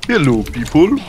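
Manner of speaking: amateur French accent; attempted French accent. Shown as a demonstration. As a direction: greet people in a shaky-attempt French accent. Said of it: "Maybe I can make French accent from France".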